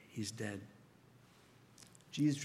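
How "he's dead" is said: hushed dread. Retold or imitated. Crowd declares boy dead.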